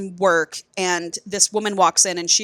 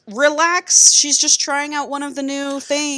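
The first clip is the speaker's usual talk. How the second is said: breezy dismissal; 7 semitones higher than usual. Retold or imitated. Voicing Drake brushing off Emerson.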